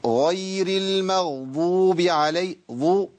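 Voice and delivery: long chanted المغضوب with its ض shaded into ظ; Dad tinged with Zha. Shown as a demonstration. Teacher showing a reading to avoid, ض in المغضوب blurred toward ظ. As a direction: let the ض in المغضوب leak into an emphatic TH. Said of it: "الضاد مشوبة بالظاء".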